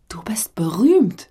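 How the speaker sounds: slow, unvoiced whisper of awe. Woman tells the radio host he is famous, slow whisper. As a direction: let the words hang in a hushed breath. Teasing compliment about his show.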